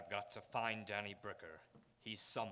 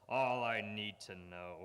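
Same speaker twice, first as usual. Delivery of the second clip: menacing gloat; 7 dB louder, slower than usual. Acted. Gloating over Bricker's fate.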